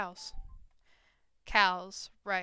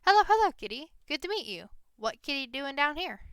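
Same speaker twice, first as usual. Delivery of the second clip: loud, high goblin chatter; 5 semitones higher, 6 dB louder than usual. Acted. Goblin Gary greets Kitty, loud and high. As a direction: greet them like an eager little goblin. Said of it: "the goblin shouts".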